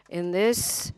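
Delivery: normal talking voice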